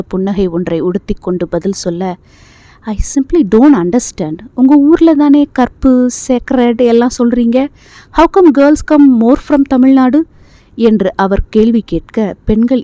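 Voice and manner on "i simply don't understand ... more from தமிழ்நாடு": slow, higher, mocking drawl; condescending doctor. A narrator's reading. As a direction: sneer at her, stretching every word. Condescending doctor questioning patient. (ஏளனமாக இழுத்துப் பேசும் மருத்துவர்)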